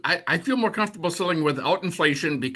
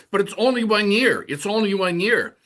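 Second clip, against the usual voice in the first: lightly imitated client complaint, pitched higher; higher-pitched mock protest; objecting client; 5 semitones higher than usual. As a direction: mimic a client's repeated objection. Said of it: "I've gotten consistent objections to".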